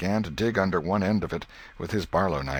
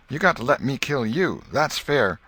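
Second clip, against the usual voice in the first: insistent demand; 7 semitones higher, 5 dB louder than usual. Acted. Joe demanding his turn.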